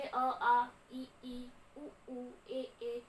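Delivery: "अ, आ, इ, ई, उ, ऊ" each said separately as a pure oral vowel; vowel demonstration. Shown as a demonstration. Teacher showing no nose is used, vowel demonstration of "अ, आ, इ, ई". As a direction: recite "अ, आ, इ, ई" one by one, short then long. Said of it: "आप खुद बोलकर देख लीजिए".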